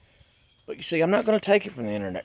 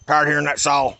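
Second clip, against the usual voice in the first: annoyed dad; 4 dB louder than usual. Retold or imitated. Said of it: "He comes out on the front porch and said".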